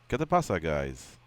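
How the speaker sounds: mock Spanish greeting, pitch dropping on guys; lightly hammed Latino greeting; imitating old Alex. Host mimics fighter's old way, mock Spanish. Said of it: "Do it again".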